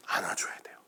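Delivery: near-whispered gentle answer; hushed, tender. Real, not acted. Preacher saying how to treat the crying, hushed. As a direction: drop right down to a whisper.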